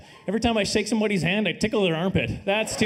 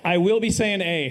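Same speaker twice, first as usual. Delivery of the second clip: Canadian accent. Shown as a demonstration. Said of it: "apologize right away for my, uh, my accent".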